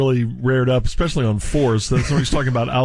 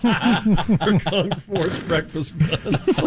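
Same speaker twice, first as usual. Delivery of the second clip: imitating burp talk; 4 semitones higher, much slower than usual. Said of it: "He had the burp talk of guns".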